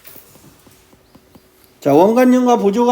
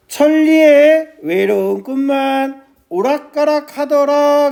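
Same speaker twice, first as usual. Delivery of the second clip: measured recital, phrase by phrase; verse reading; 2 semitones higher than usual. Shown as a demonstration. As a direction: read it out as a line of sijo. Teacher recites the poem line.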